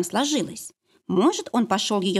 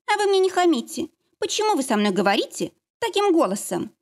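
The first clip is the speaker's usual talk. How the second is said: indignant; 9 semitones higher than usual. Acted. Lara takes offence, rebukes.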